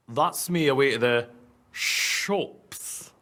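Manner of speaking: lightly voiced impression of the teacher, trailing into a breathy end; a hint of the teacher's voice. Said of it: "I can do a better one".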